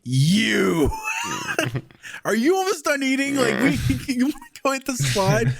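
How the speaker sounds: high, called-out child imitation; bossy little daughter. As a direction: call out like a kid recruiting a playmate, half laughing. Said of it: "she'll be like".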